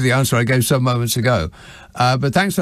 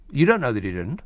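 ordinary talk

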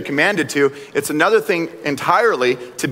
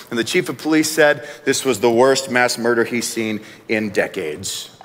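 news anchor voice; 5 semitones lower than usual. Retold or imitated. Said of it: "they sound so goofy sometimes 'cause they'll be like".

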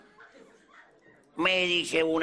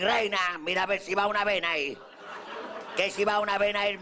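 pained mock protest; 6 semitones higher than usual. Retold protest after strip pulled.

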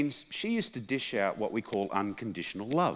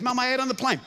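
protesting son; 13 semitones higher, 3 dB louder, faster than usual. Retold or imitated.

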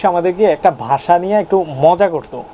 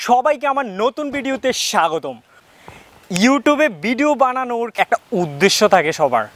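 higher-pitched presenter's welcome; vlog intro presentation; 4 semitones higher than usual. Acted. Vlogger welcomes viewers and explains the channel, presenter voice.

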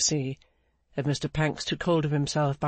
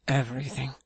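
resigned answer. A narrator's reading. Clennam admitting total loss to Pancks, resigned.

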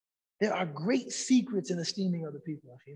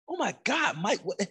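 taken aback; 3 semitones higher than usual. Retold or imitated. Interviewer reacting to Mike Tyson's lewd remarks, taken aback. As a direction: lightly imitate a startled interviewer. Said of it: "she was taken aback by this".

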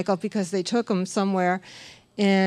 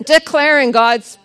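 loud slow declaration; 6 semitones higher, 8 dB louder than usual. Retold or imitated. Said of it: "just keep declaring".

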